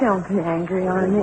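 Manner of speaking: soft, small placating voice; timid plea. Acted. Wife soothes angry husband, soft and timid. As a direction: shrink back and soothe him.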